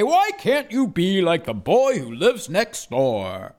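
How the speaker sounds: parents' voice. Retold or imitated. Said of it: "my parents say".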